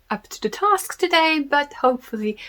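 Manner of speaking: British accent. Real, not acted. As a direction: slip unintentionally into a British accent. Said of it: "just got such a British accent".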